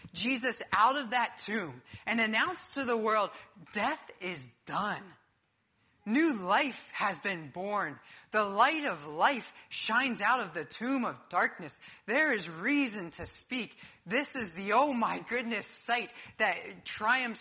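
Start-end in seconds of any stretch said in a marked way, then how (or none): 3.7-13.8 proclamation. Acted. Announcing resurrection.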